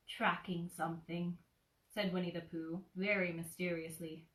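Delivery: put-on gentle storybook narration for a child; cozy read-aloud of a childhood book; bedtime story reading. A narrator's reading. Reads Winnie the Pooh aloud.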